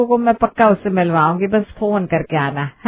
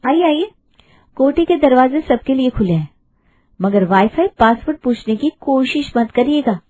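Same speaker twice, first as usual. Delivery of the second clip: higher, sing-song and mocking; sassy bride welcome; 4 semitones higher than usual. Bride welcoming the aunties with cheeky sarcasm, higher. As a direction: welcome them with a sly sweet jab.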